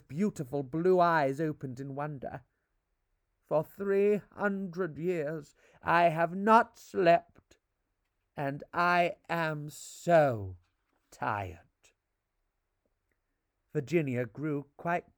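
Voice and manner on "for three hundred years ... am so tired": very slow, heavy, tired; weary sadness. Acted. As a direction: let each word sag with fatigue. Ghost repeats, weary.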